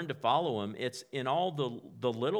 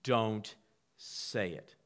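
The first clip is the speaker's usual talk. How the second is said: inner voice warning; much slower than usual. Acted. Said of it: "this voice is saying".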